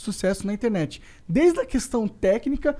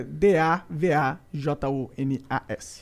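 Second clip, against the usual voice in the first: slow spelling out; 5 semitones lower, much slower than usual. Real, not acted. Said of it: "É que eu tô lendo".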